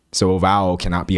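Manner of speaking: low, lazy-voweled Texas accent. Shown as a demonstration. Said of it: "My Texas voice is not awful".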